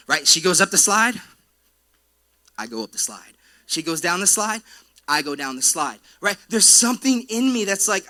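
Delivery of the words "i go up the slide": quieter, lower echo. Retold or imitated. Anxious dad trailing his daughter.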